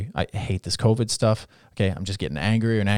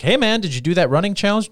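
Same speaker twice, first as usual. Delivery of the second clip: friend checking in; 9 semitones higher, 5 dB louder than usual. Retold or imitated. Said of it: "these people would be like".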